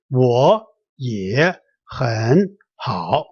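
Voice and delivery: 我也很好 read slowly, each syllable dipping low then rising; all third tones. Shown as a demonstration. Teacher shows the unchanged tones, 我也很好 in slow third tones. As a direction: give every word in 我也很好 its own dipping tone. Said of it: "They're all third tones".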